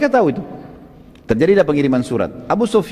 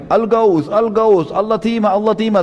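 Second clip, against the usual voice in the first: mock alarm cry; 5 semitones higher than usual. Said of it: "Teriak-teriak lagi".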